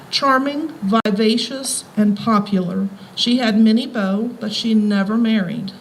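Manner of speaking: measured public reading of a passage; reading aloud. Acted. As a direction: read it out to the audience like a tribute. Reads a biography passage aloud.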